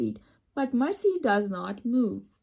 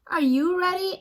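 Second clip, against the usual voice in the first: excited unvoiced whisper, higher; 6 semitones higher, 4 dB louder than usual. Man to his pig before the ride, excited whisper. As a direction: breathe the question in a thrilled whisper. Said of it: "asks Mister Watson".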